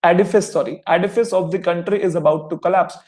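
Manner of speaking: very slow, word by word; slow example reading. Shown as a demonstration. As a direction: read the example sentence slowly for the class. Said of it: "example के तौर पे". (उदाहरण वाक्य बहुत धीरे पढ़ना)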